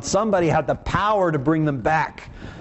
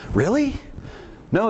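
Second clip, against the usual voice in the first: high scoffing "Really?" from mourners; mock-incredulous mourners scoffing at Jesus; mocking disbelief; 7 semitones higher than usual. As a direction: jeer at the idea, pitched way up. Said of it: "they laugh".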